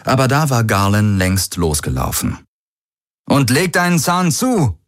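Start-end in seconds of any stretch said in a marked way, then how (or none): 3.3-4.8 high-pitched hurrying call. A narrator's reading. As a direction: call back to hurry someone along. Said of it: "rief er". (antreibend mit hoher Stimme rufen)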